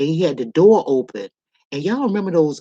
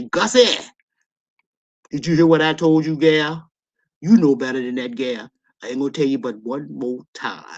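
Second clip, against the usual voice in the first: imitating stern daddy. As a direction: play a thundering father scolding his daughter. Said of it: "My daddy would say".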